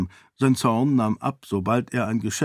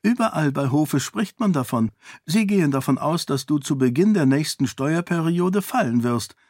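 higher, coolly mocking; parry his threat with ease; calm defiant princess; 5 semitones higher than usual. Sarene breaks the news. (gelassen herausfordernd)

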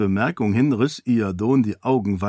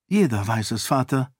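casual. Acted. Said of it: "sagte Sarene leichthin".

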